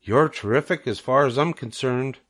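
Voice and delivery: a gentle, fond spider; sweetly. Acted. Charlotte reassuring Wilbur he's terrific, sweetly. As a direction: reassure your friend. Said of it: "replied Charlotte sweetly".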